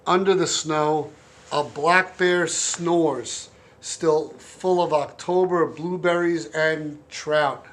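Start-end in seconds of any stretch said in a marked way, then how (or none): 1.5-7.7 slow sleepy bear voice, lightly done; snoring bear impression. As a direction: mumble it like a dozing bear. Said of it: "my black bear snoring impression".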